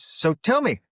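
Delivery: put-on high-pitched, amateur Irish accent; bad Irish accent. Pub stranger questions American visitor about the Troubles, bad Irish accent. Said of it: "it's a very bad Irish accent".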